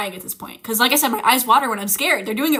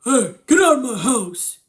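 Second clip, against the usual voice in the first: mock firm. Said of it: "you're gonna be like".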